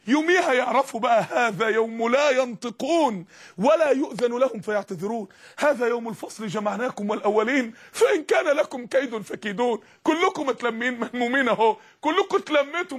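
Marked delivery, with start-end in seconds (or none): 1.3-9.8 measured recital of sacred verse; formal Quranic reading; scripture recitation. Acted. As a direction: recite it solemnly, word by word.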